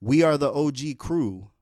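mild mock yell of a crowd chant; a fan shouting to the stage; retold scream. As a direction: call it out like a fan from the side of the stage. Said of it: "Jesse screams from the side of the stage".

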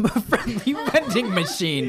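laughing. Real, not acted. Mocking repeat of the quote.

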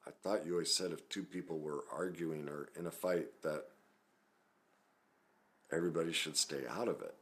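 mildly sheepish, tentative son. Retold or imitated. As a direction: timidly question a parent, with pauses. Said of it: "very sheepishly, I said".

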